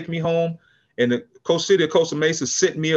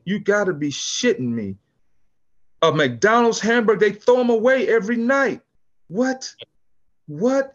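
retold rant, rising to high What?; mock furious chief cursing his officers; livid cursing; 4 semitones higher than usual. Police chief cursing out officers over a hamburger, mock livid. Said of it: "he was livid".

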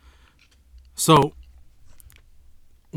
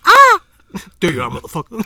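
triumphant shout; 8 semitones higher, 12 dB louder than usual. Pretend. Blind man finds his target.

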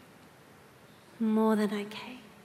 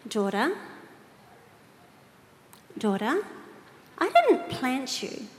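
voice of the Lord; slower than usual. Retold or imitated. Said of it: "he doesn't have a high voice".

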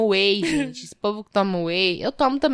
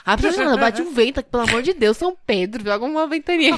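mock desperate plea, higher; exaggerated pleading; 3 semitones higher, 3 dB louder than usual. Wife begging Saint Peter for wind after the fart, hammed-up. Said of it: "eu sou muito exagerada".

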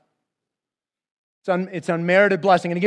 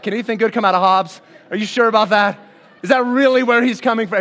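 louder, mock-incredulous questioning; obnoxious doubt; 3 semitones higher, 4 dB louder, faster than usual. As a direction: question it with pointed, teasing disbelief. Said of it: "I would say something obnoxious".

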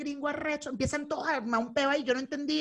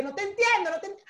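high-pitched mock refusal; imitated gringo; 8 semitones higher than usual. Gringo cutting off the Spanish-speaking traveler, mimicked high. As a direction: brush it off in a raised, imitated voice.

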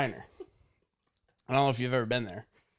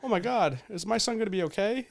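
mock panicked mom; 10 semitones higher than usual. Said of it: "they're like".

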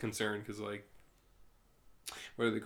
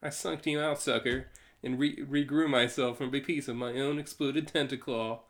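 higher mock voice; 4 semitones higher, 5 dB louder than usual. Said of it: "Mister Terrific".

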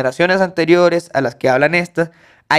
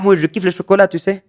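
casual French example; 3 semitones higher than usual. Shown as a demonstration. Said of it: "Entonces, ah".

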